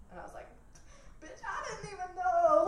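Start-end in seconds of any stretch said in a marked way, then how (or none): 1.2-2.7 high, loud mock exasperation; raised, squealed comeback; exasperated retort. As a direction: throw it back in hammed-up disbelief. Acted retort to questioning mom.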